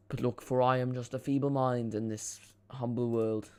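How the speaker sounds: slow mock-humble pronouncement, badly imitated; Sir Alex Ferguson. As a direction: attempt a grand Scottish voice and miss. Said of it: "trying to do a Sir Alex Ferguson impression".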